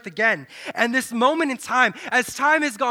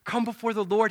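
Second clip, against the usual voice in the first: prophet's call; 5 dB quieter than usual. Acted. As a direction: call it from far off, softly.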